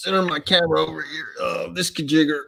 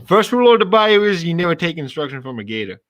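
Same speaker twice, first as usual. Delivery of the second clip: hammed-up bayou Southern accent; 4 semitones higher, 4 dB louder than usual. Quoting Princess and the Frog, Southern bayou accent. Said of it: "I watched Prince and the Frog".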